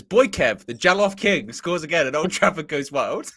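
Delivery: lightly voiced match commentator; mock football commentary. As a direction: read it out like a goal call. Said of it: "imagine Peter Jury as well going".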